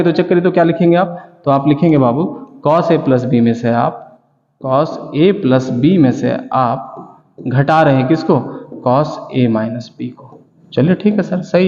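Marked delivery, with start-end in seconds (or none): 2.7-10.4 slow dictation. Shown as a demonstration. Teacher dictating formula slowly.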